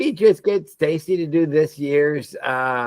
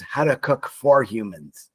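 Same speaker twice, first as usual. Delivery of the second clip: slow; 3 semitones lower, slower than usual. Retold or imitated. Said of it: "and says".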